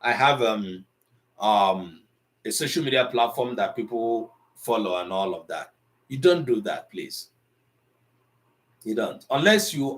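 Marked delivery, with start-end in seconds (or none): 0.0-5.7 self-assured quote. Retold or imitated. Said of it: "they think that".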